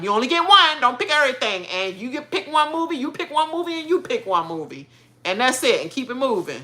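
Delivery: a lightly voiced strict dad; imitating father. Father prepping kids at Blockbuster, mildly stern. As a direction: lay down the rules like dad. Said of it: "my father used to already prep us".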